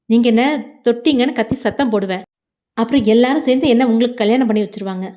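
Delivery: mildly menacing warning; threatening. Acted. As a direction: warn them off with a threat. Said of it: "பேசி அச்சுறுத்த வேண்டியதாக". (லேசாக மிரட்டும் தொனி)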